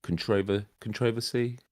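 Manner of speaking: "controversy" stressed on TROV, softly; con-TROV-ersy for "controversy", quietly questioning; stress on second syllable. Real, not acted. Guest checks how he says the word, "controversy" with stress on TROV. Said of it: "emphasis on the wrong syllable".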